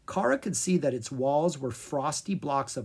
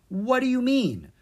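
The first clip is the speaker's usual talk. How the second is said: confused question; 10 semitones higher, 4 dB louder than usual. Acted. Kara confused by princess.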